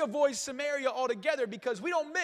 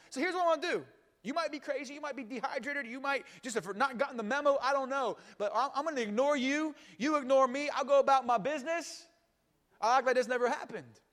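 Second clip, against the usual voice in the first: dismissive Samaritan woman. Acted. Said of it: "she probably sounds a little something like this".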